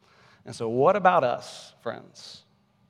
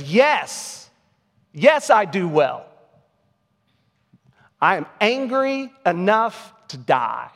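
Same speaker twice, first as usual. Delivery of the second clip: Jonah losing his mind; 4 semitones higher, slower than usual. Retold or imitated. Preacher voicing Jonah answering God, mildly enraged. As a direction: play Jonah's half-acted rage, dragging the words. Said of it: "Jonah loses his mind here".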